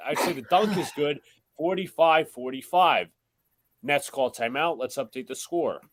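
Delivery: steady broadcast call of the game; live play-by-play. Acted. Host calling the Knicks-Nets game for the stream, play-by-play. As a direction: call the action as it happens.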